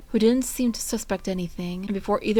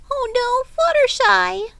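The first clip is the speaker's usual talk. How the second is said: high, loud alarmed cry; distressed; 8 dB louder, slower than usual. A narrator's reading. Pinkie panicking over hurt Fluttershy, high loud distressed. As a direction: panic for her friend. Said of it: "Pinkie thought distressingly".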